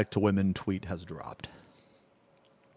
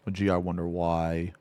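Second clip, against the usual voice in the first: sarcastic; 4 semitones lower, 6 dB quieter than usual. Real, not acted. Mocking the tweet.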